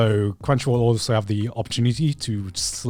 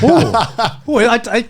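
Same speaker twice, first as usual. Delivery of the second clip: put-on high cute anime girl; 9 semitones higher, 4 dB louder, much slower than usual. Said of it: "I'm like".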